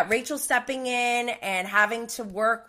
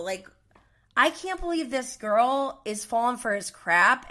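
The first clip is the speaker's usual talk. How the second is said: ordinary talk, nothing marked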